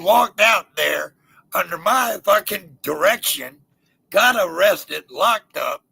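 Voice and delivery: gloating over the arrest; triumphant. Real, not acted. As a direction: savour the payoff, slow and loud. Triumphant punchline.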